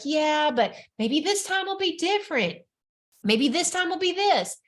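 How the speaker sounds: lightly tempting, coaxing inner voice; a hint of seductive whisperer; sexy voice. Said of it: "Then your sexy voice comes in".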